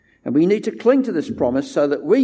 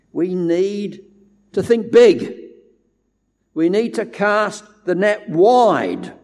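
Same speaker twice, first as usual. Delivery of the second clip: 1 rousing call; 3 semitones higher, slower than usual. Acted. Rallying the church to think big.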